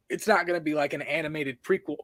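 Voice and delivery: talking through hiccups. Real, not acted. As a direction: hiccup breaking the sentence. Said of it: "I have the hiccups".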